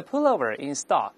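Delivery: "pullover in stock" with final r and open "stahk"; slow American model phrase; American accent. Shown as a demonstration. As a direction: say it American: pull-oh-ver in stahk. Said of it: "美国人的".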